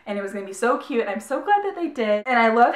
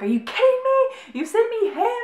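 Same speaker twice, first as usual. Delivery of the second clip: retold yelling; 12 semitones higher than usual. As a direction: yell it at the gods, half-playfully. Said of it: "like, yelling at the gods".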